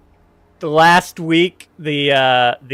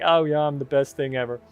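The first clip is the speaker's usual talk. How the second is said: mock big shot; 6 dB quieter, faster than usual. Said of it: "I wasn't acting like".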